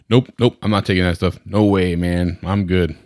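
mock-Southern patient digging in; goofy Southern accent. Patient waving off the doctor's advice, in a goofy Southern accent. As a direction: brush it off in a hammy Southern accent. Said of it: "every patient I talk bad about has a Southern accent".

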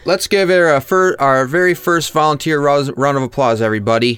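high, gushing announcer voice; Effie impression. Effie asking the crowd for applause, high and gushing. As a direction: cheer the crowd on like a giddy host.

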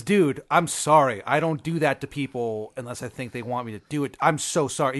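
mildly panicked, acted apology; freaking out. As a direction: blurt out a flustered mock apology. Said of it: "He's, like, really freaking out".

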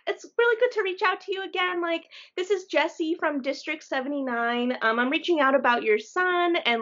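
high, bright, brisk reading of a text; reading a text aloud. Retold or imitated. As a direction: read the message in a perky voice. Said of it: "and it was like".

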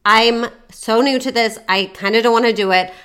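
mildly cheerful, friendly opener; upbeat. Shown as a demonstration. Coach models a first dating-app message for her client, upbeat. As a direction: keep it light and upbeat, a touch lifted.

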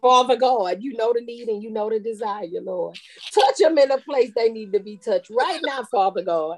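half-joking preacher prayer; mock prayer. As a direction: pray over it, tongue in cheek. Mock prayer over products.

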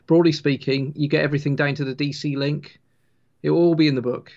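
ordinary talk, nothing marked

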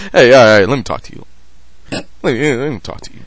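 quiet mob boss dropping low; a famous singer's persona. Acted. Father playing Italian mob boss, low and hushed. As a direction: play a soft-spoken mob boss opening a deal. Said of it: "I'm Vic Damone every time".

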